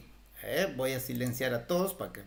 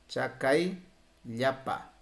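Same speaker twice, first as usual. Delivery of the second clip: slow repetition; much slower than usual. Shown as a demonstration.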